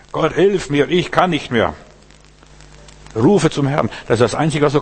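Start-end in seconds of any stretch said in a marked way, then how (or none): 0.1-1.7 loud plea for help; crying to God. Retold or imitated. Preacher models crying out to God, loudly. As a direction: call out to God, louder. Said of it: "zu Gott schreien".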